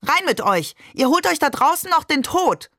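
high-pitched grandmother's call from the window; narrated scolding yell. A narrator's reading. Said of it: "schrie sie".

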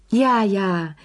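lightly called, affectionate agreement; mildly gushing affection; tender exclamation. A narrator's reading. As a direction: agree fondly, with a touch of tenderness. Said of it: "rief Madame Pelou zärtlich".

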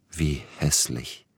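a touch of hurt; mildly distressed. Acted. Neugebauer ist gekränkt, leise bekümmert. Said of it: "machte Neugebauer bekümmert".

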